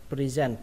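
"Present" stressed on -sent, pre-ZENT; second-syllable stress. Shown as a demonstration. Teacher shows learners where stress falls, second syllable. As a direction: put the weight on the end of "Present". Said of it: "trọng âm của nó rơi vào âm thứ hai".

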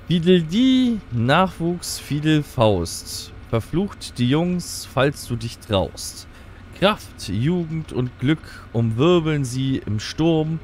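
lightly dramatic poem reading; poem recital. Acted. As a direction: read it like an old prophecy. Reads an in-game poem.

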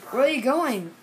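curious zebra. Acted. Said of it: "said the zebra".

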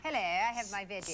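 lightly mimicked British "veggies"; a touch of mock British; imitating British accent. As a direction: playfully copy the British guest's accent. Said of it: "I love the way they say that".

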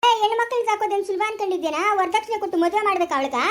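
high, heated challenge; indignant scolding. Acted. Arguing about dowry for a girl, indignant.

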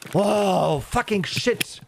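high, frantic cursing; panicking gamer. Real, not acted. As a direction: swear in startled panic. Sudden miss in a firefight.

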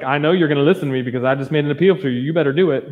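mock passive-aggressive, fast. Preacher imitating a passive-aggressive letter, fast and mock-pointed. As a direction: rattle it off with a pointed, mock-pushy edge. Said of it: "this passive aggressive".

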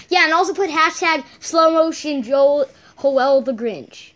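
drawn-out slow replay; slow motion voice. Pretend. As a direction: drag the words out slowly. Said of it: "in my own slow motion voice".

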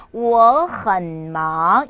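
我很忙 slowly, 我 rising, 很 low, 忙 rising; slow tone model of 我很忙, 很 kept low; second, half-third, second tones. Shown as a demonstration. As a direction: draw out 我很忙 as rise, low dip, rise. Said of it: "이성의 반삼성 이성".

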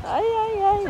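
teasing ay ay ay. Real, not acted. Teasing friend before a flip.

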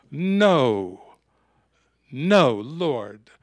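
loud, pleading no from a stung disciple; upset protest. Retold or imitated. Peter loudly protesting to Jesus at the Last Supper. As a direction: cry it out like a wounded follower. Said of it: "that really sent Peter off".

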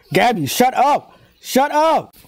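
exasperated, pitch leaping on "up"; worked-up heckling. Real, not acted. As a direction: heckle the character in high exasperation. Yelling at a character on screen.

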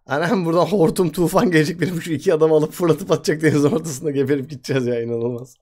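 loud, high mock panic about the storm; exaggerated alarm. Real, not acted. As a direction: cry out like doom is coming. Hamming up disaster fear in game. (abartılı panik)

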